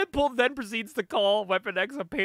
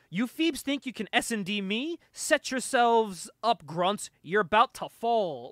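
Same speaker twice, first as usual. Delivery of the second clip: light Brooklyn tough-guy slang; Brooklyn accent; slower than usual. Retold or imitated. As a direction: read it with a touch of Brooklyn. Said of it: "like, a Brooklyn accent almost".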